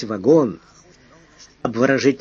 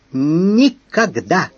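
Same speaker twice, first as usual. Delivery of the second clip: slow, higher, louder refusal; shouted; 5 semitones higher, 4 dB louder, much slower than usual. A narrator's reading. Flushed lady shouting back at her lover, defiant. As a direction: hurl it back at him. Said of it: "выкрикнула раскрасневшаяся пассажирка".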